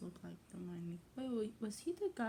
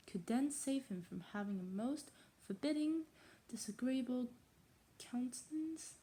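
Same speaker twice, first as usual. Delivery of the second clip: put-on reading aloud in a tentative English accent; attempted English accent. Untrained reader trying a classic novel, English accent. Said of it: "how to say that in English accent".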